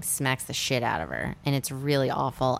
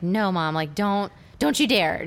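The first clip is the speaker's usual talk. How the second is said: urgent, raised-pitch retold plea; higher-pitched child's protest, retold; retold pleading; 4 semitones higher than usual. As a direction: plead with mom to stay, lightly acted. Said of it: "like, pled for her to not go".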